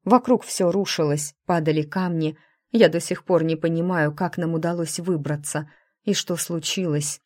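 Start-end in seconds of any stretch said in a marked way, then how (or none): none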